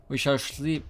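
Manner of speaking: high, loud ringing declaration; loud proclamation. Acted. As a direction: proclaim it to the heavens. Repeated proclamation.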